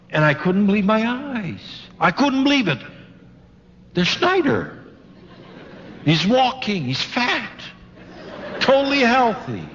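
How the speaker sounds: retold amazement. Preacher retells a man finding his sick friend alive, amazed. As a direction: relive the astonished sighting, pitch lifted.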